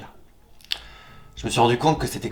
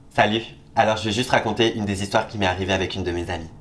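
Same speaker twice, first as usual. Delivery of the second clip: lightly put-on airhead voice; a hint of a ditzy girl; bimbo voice. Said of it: "je vais prendre une voix de pétasse".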